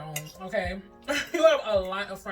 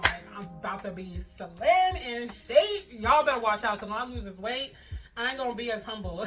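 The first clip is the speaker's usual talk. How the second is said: laughing, louder teasing brag; playful boast; 3 semitones higher, 6 dB louder than usual. Real, not acted.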